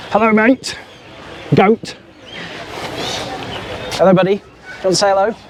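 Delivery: high, cooing hello to a goat; talking to an animal. Real, not acted. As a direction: sweet-talk a shy animal. Greeting a goat.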